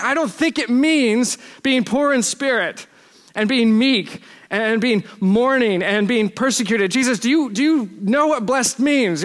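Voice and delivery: high, drawn-out exasperated questioning; incredulous objection. Acted. Imagined listener questioning Jesus on being blessed, incredulous.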